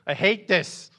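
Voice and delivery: high, loud pent-up groan; inner frustrated yell. Retold or imitated. Pastor voicing his inner frustration at grandma, loud. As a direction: let the inner frustration burst out. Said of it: "on the inside, you're just shaking".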